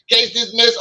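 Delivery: high, amused echo through a laugh; laughing repeat. Retold or imitated. Retelling the judge's ruling to his sister, laughing echo. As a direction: replay the verdict while cracking up.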